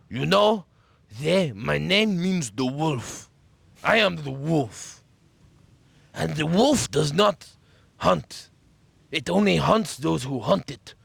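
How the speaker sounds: slow, solemn lightly voiced influencer with a drawn-out delivery; a hint of a self-serious macho guru; mock wolf influencer. Mocking an influencer for his friend, slow and solemn. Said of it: "I saw some Italian right wing influencer".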